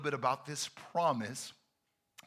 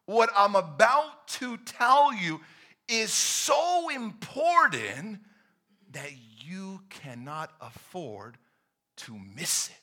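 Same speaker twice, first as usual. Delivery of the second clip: urgent call fading to a hush; urgent Jesus voice; 6 dB louder, slower than usual. Pretend. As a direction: voice Jesus urging you to listen. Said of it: "he's saying".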